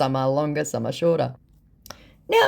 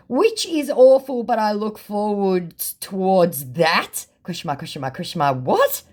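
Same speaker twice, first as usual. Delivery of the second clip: mock incredulous reply; mocking disbelief; 5 semitones higher than usual. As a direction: drag it out to mock him.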